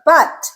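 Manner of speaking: but said with full stress; stressed vowel. Shown as a demonstration. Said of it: "that is the stressed sound".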